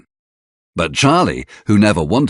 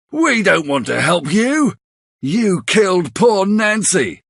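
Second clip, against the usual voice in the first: angry accusation; 11 semitones higher than usual. Acted. Charlie accuses Bill of killing Nancy, angry high voice. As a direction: throw the crime in his face. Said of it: "he shouts angrily".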